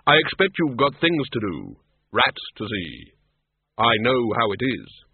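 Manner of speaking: slow and grave, unhurried; Death's slow, measured voice. Acted. Death greets the tiny Death of Rats, slow and grave. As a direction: speak as a calm figure of Death.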